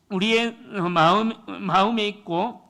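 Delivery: normal talking voice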